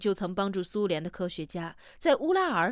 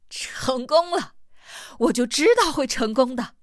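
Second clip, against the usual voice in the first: jubilant; 4 semitones higher, 6 dB louder than usual. A narrator's reading. Huaite finally lets his joy loose, jubilant. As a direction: exult with breathy first words, then ring out. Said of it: "大笑起来".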